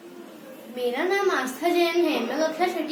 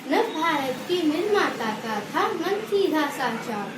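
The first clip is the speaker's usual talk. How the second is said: rhythmic, sing-song school recital; poem recitation. Real, not acted. Pupil presenting a Children's Day poem to the assembly, sing-song recitation. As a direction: chant each verse in a lilting, regular beat. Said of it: "एक कविता प्रस्तुत करने जा रही हूँ".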